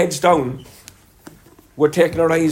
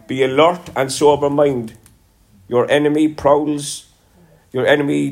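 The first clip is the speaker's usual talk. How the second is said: scripture reading. Acted. Preacher reading one Peter to the congregation, measured and solemn.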